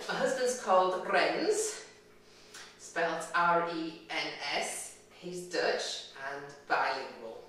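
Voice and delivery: normal talking voice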